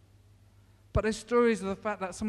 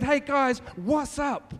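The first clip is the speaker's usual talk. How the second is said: casual greeting; 3 semitones higher, slower than usual. Shown as a demonstration. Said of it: "No, he didn't say it like that".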